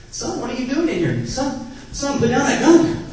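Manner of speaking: escalating fake panic on the phone; frantic yelling at son. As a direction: yell at the kid to drop the gun. Acted panic at pretend son with gun.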